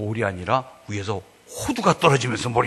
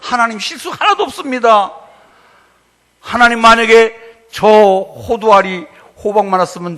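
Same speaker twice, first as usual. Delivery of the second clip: higher, louder thankful exclamation; loud grateful cry; 9 semitones higher, 9 dB louder than usual. Retold or imitated. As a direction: cry out your thanks to God. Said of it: "나온 소리가".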